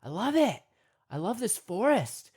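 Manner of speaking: acted-out delight, swelling at the end; excited. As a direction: revel in being lost, mock-thrilled. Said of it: "You're kind of excited that you're lost".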